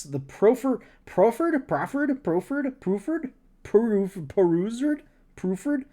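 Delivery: "proffered" tried over and over, rising high; unsure pronunciation. Shown as a demonstration. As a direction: sound out "proffered" like a question.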